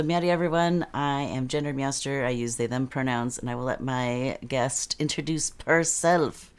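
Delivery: normal talking voice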